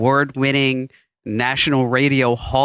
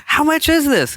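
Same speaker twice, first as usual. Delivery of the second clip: mock polite question; 10 semitones higher than usual.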